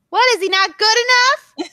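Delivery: high loud offended mom voice, laughing; mock indignant mom. Daughter imitates her mom defending Mojo, high and indignant. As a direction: huff like an insulted mother.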